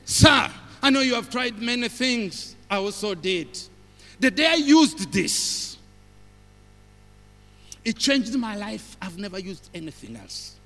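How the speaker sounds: lightly acted salesman testimonial; salesman's pitch. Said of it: "The one who sells say".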